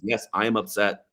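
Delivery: plainly stated, understated imitation; Harrison Ford. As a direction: state it simply, no show of feeling. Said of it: "like, plainly".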